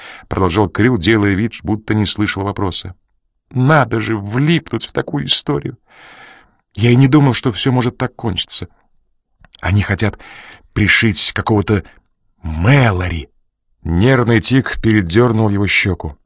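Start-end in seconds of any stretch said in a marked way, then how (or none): 3.5-13.3 lightly raised, jittery nervous man; nervous Crew. Acted. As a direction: fret like a man in trouble. Crew frets to Coridon.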